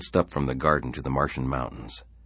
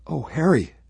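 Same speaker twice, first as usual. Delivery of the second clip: much higher, louder dismayed wife; mother clinging to her husband; mother's shocked cry; 14 semitones higher, 5 dB louder than usual. Acted. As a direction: gasp it out in dismay.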